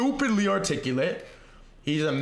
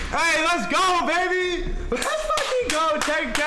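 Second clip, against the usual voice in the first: gym bro; 10 semitones higher, slower than usual. Real, not acted. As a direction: scream it like you just won. Celebrating ten K subs.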